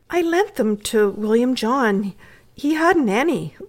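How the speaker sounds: mildly hesitant, owning up; faltering. Acted. Boy confessing to the housekeeper about lent mittens, faltering. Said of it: "faltered Bertie".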